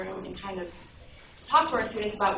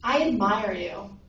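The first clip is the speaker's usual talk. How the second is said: slow, measured mock call; dad's restrained call across the valley; retold yell; 4 dB louder, slower than usual. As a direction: call it out slowly, without shouting. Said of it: "And he yells out".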